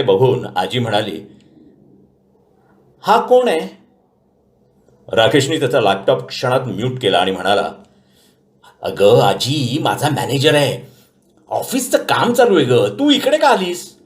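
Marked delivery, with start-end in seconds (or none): 3.0-3.8 much higher, lightly voiced grandma asking; old grandmother. A narrator's reading. Grandmother asking about the man on the laptop, curious. 8.8-14.0 higher, slower, pleading; hushed grandson. A narrator's reading. Grandson whispering to grandma, pleading.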